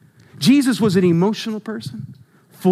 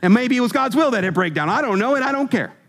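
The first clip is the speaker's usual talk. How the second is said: excited coworker; 3 semitones higher than usual. Pretend. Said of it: "Man, I got the Holy Ghost".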